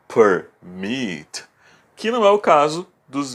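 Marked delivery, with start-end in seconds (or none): 0.1-1.4 permit split as per... MIT; stress on last syllable. Shown as a demonstration. Teacher repeating the example for students, permit with MIT stressed. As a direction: pause inside permit, then stress MIT. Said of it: "elas são as últimas sílabas fortes".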